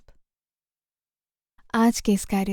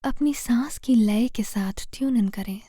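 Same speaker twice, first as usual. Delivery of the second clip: guided meditation. Real, not acted. Meditation guide leading listeners through posture and breath to heal fear, calm guided meditation. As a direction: guide them gently, phrase by phrase, leaving space to breathe.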